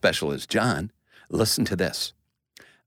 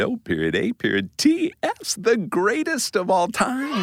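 excited reveal; 10 semitones higher than usual. Acted. Spelling out the acronym.

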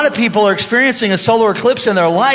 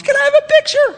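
excited fan yell; faster than usual. Retold or imitated. Fan running over to the pastor with his phone, excited high yell. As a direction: holler it like a starstruck fan.

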